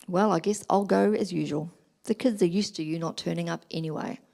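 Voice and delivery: mild cold dig at the husband; understated contempt, belittling him; contemptuous. Retold or imitated. Wife to husband about sports day, mildly contemptuous. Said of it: "That would be a form of contempt".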